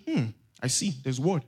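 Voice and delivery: low, soft, doubtful hmm; unconvinced musing. Acted. Preacher voices a doubting onlooker's thought, low sceptical musing. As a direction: muse it quietly to yourself, withholding belief. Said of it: "do you know what I would be thinking".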